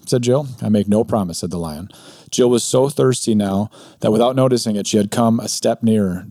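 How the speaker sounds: reading a story aloud with lightly voiced characters. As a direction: read it like a bedtime tale for listeners. Reads Narnia passage aloud.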